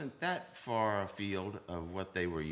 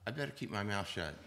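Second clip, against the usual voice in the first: laughing inner thought; 5 semitones higher, 5 dB louder than usual. Retold or imitated. Drummer retelling his thought, laughing through it. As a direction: laugh at his own restraint. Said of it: "and then I thought".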